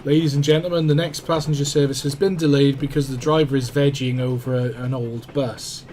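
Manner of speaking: announcer voice over the tannoy; train station announcement. Pretend. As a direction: read it like a platform announcement.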